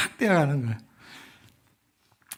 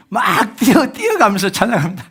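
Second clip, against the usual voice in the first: higher and louder, breathless retelling; excited; 5 semitones higher, 9 dB louder than usual. Retold or imitated. Pastor reliving running past the shrine, excited and loud. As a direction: rush it like running in fear.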